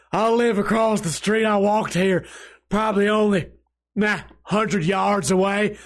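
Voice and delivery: put-on old drunk Southern voice, dragging; country accent. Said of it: "Let me keep doing the voice".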